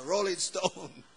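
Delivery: lightly voiced, drawn-out dude; slow, hint of a dude; rocker dude impression. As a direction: stretch it out like a rock fan. Acting the rock-loving villager.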